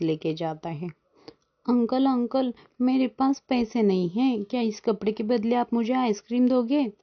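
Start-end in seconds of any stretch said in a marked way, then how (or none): 1.7-6.9 higher-pitched pleading little bird; lightly voiced child. Child bargains with the ice-cream seller, lightly voiced pleading. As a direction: ask like a child wanting a treat.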